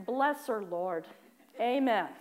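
sighing, half-hearted mock blessing; reluctant minimal prayer. Worshipper forced to pray for her rival, half-hearted and reluctant. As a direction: squeeze out a short grudging prayer. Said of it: "that was as much as I could muster".

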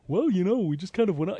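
soft, lightly sing-songy imitation; Bobby Valentine. Host mocking the manager's post-game talk, lightly sing-songy. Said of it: "like, sing-songy voice".

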